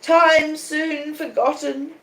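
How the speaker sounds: high, very slow moan; a drawn-out moaning lament. A narrator's reading. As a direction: draw the words out in a lament. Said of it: "moaned Miss Havisham".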